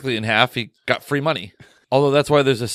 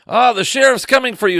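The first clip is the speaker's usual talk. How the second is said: saloon dancer voice; 9 semitones higher, 4 dB louder than usual. Retold or imitated. Saloon dancer quoted in retelling.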